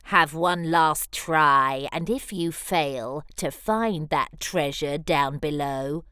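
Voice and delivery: a touch of villainous anger; mild angry threat. Acted. Lizard threatening Superworm, low mild menace. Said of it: "flicks an angry tail".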